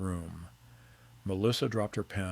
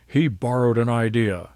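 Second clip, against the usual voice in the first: loud, sharp retort; yelled; 3 semitones higher, 9 dB louder than usual. Acted. Wife yells at husband following him, loud. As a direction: throw it back at him. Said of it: "she yelled".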